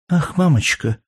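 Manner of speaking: put-on a small child's high, sad question; sad little girl. A narrator's reading. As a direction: voice the little daughter, high and worried. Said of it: "спросила с выражением печали малютка".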